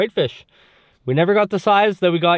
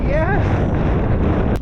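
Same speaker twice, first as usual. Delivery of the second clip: excited yell; 11 semitones higher than usual. Real, not acted. Catch celebration.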